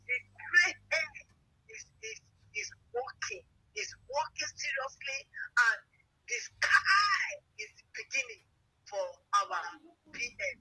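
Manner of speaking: tearful, voice breaking with emotion; sobbing through the words; crying out. Real, not acted. Speaker crying out to listeners on the live broadcast. Passionate crying speech on air.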